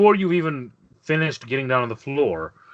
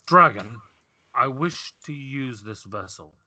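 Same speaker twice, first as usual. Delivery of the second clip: imperious Chulari; slower than usual. Acted. Chulari demands the dragon's vessel.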